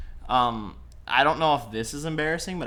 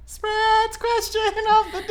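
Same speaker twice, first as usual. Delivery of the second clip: announcer voice; 6 dB louder, slower than usual. Acted. Announcing the segment title.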